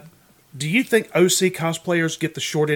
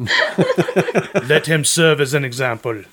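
grand proclamation; much slower than usual. Pretend. Mock grand pronouncement.

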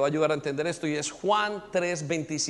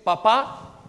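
put-on child whining; 4 semitones higher, 5 dB louder than usual. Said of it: "comienza a llorar ese niño".

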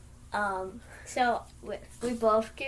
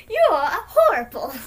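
mock yell; 7 semitones higher, 8 dB louder than usual. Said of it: "you just said".

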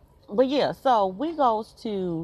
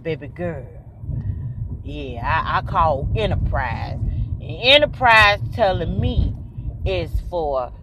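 voicing daddy; 3 semitones lower, 4 dB louder, slower than usual. Daddy reporting his call.

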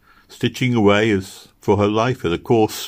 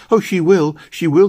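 high, loud insistent cry; 9 semitones higher, 6 dB louder than usual. A narrator's reading. Little girl insisting Posy will come home, crying out. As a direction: burst out with childlike conviction. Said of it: "cried Meg".

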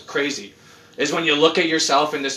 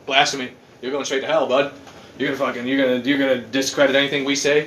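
outraged believers; 4 semitones lower than usual. Retold or imitated. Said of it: "they were like".

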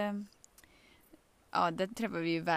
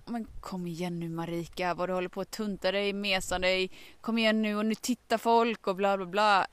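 self-scolding. Retold or imitated. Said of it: "Då kan jag känna så här".

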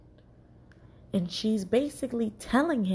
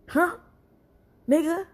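incredulous; 9 semitones higher, 4 dB louder than usual. Acted. Incredulous reaction to flight date.

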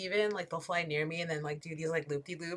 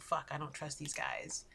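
wary crows; 4 semitones lower, 10 dB quieter than usual. Retold or imitated. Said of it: "they'll, like".

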